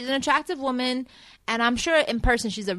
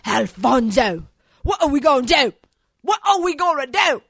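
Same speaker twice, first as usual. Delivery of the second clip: mock earnest Aiden; 4 semitones higher, 6 dB louder than usual. Mocking Aiden pleading to his stuffed animal, loud and earnest. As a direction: ham up his sincere question to a stuffed toy. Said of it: "But he was like".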